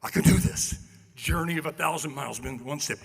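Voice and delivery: loud hype talk; pumping himself up. Retold or imitated. Player pumping himself up before the drill, loud. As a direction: psych yourself up loudly. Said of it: "I'm going".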